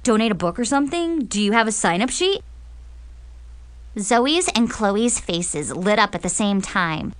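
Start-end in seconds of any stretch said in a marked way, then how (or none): 0.0-2.4 fast eager questions; excited. Acted. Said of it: "Jason asked excitedly".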